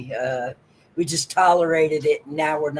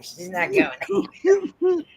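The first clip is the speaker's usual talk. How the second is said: squeaky high voice; 13 semitones higher than usual. Pretend. Mock high voice.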